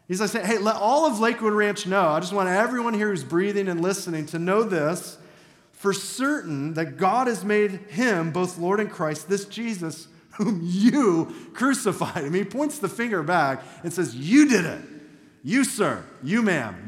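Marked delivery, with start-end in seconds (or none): 0.5-12.2 bold proclamation. Retold or imitated. Preacher voices Peter accusing crowd. 14.1-16.9 loud, pointed accusation at each listener; accusing shout. Retold or imitated. Peter points finger at crowd.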